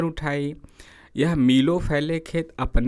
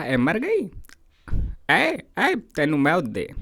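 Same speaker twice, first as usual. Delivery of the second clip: mock angry shout; 2 semitones higher, slower than usual. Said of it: "चीख कर बोला".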